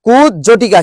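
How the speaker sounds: কুজ জটিকা in two parts, kuj, jhotika; split pronunciation. Shown as a demonstration. Teacher helping students remember, কুজ জটিকা split as kuj-jhotika. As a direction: separate কুজ জটিকা clearly after kuj. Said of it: "মনে থাকবে".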